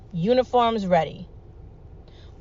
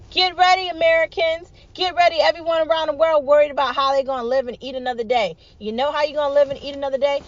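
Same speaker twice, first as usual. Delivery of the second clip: a rallying shout to the crowd; 5 semitones higher than usual. Real, not acted. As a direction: call it out to the whole world. Rally speech climax.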